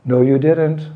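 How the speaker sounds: lightly teasing, lifted contradiction; smiling denial. Acted. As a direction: deny it playfully with a smile. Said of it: "once more with a smile".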